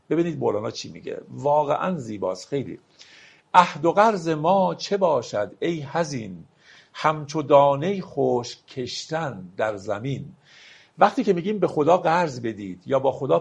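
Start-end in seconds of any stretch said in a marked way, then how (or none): 3.5-10.2 slow, measured reading of a Persian verse; poetry recitation. Acted. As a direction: lay out each word of the couplet slowly. (دکلمهٔ آرام شعر)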